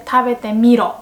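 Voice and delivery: rough manly anime hero; rough masculine anime voice. Shown as a demonstration. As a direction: bark it like a tough anime guy. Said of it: "more masculine, rough".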